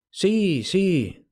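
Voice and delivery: choked "Sí, sí"; overwhelmed husband faltering; halting; broken words. A narrator's reading. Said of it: "dijo él entrecortadamente".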